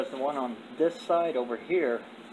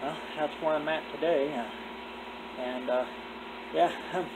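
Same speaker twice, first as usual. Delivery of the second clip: talking without dentures; gummy speech without false teeth. Real, not acted. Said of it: "I'm doing this without my teeth in".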